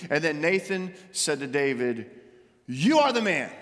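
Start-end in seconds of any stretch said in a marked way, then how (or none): 2.7-3.5 loud accusing declaration. Acted. Prophet Nathan to King David, loud and accusing. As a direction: point the finger and declare it.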